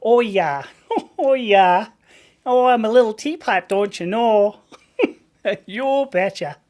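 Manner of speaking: put-on loud, laughing Midwest accent; hammed-up Midwest accent, laughing. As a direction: ham up a folksy Minnesota voice. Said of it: "the Midwest voice".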